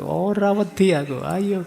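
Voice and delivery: high, loud defiant yell; frightened student shouting a challenge at the door; scared shout in Javanese. Retold or imitated. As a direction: bluff bravely while terrified. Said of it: "sambil teriak keras-keras".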